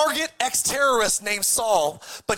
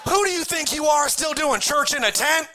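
higher, pointed scolding; indignant challenge; 4 semitones higher than usual. Retold or imitated. Boat crowd scolding Peter for stepping out. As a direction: call out Peter's arrogance. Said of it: "Everybody's in the boat going".

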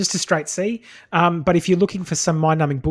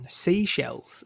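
vocal warm-up; 6 dB quieter, much slower than usual. Shown as a demonstration. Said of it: "I'm just gargling".

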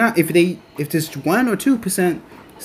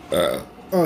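low burp mid-sentence; 11 semitones lower, 4 dB quieter than usual. Real, not acted. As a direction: let out a small burp. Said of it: "excuse me, that was a burp".

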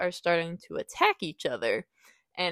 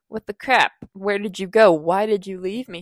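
mock furious complaint to her protector; indignant; 3 semitones higher, 7 dB louder than usual. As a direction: chew him out for leaving her. Scolding her rescuer after the attack.

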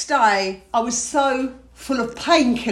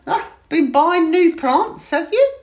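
husband's question; 6 semitones higher, 5 dB louder, slower than usual. Retold or imitated. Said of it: "he went".

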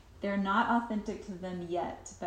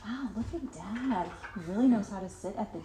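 dramatic praise; 2 semitones higher than usual. Shown as a demonstration. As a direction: overdo the compliment, laughing at the end. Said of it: "make a really dramatic deal".

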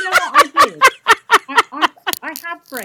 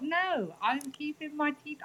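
quiet; 5 semitones higher, 10 dB quieter, slower than usual. Retold or imitated. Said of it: "therefore, I thought".

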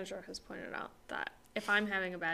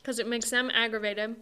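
mouth full. Real, not acted. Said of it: "I'm eating something".

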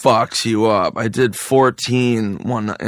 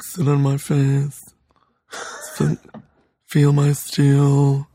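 gay robot voice; 3 semitones higher, much slower than usual. Retold or imitated. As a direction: stretch each word like a campy robot. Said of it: "It sounds like a gay robot".

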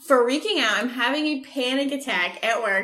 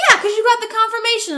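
higher mock-patient clerk; 9 semitones higher, faster than usual. Mimicking the box office guy, higher mock-patient. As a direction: explain it like a smug clerk. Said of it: "He goes".

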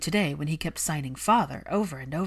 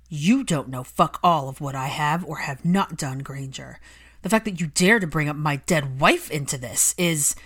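furious Malfoy; 5 dB louder than usual. Acted. Malfoy furious at Hermione for mentioning his wife. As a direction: hurl it back at her.

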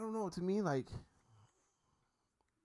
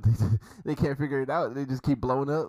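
loud, high laughing through the words; cracking up while telling the joke; 6 semitones higher, 11 dB louder than usual. Real, not acted. Laughing at the South Park joke.

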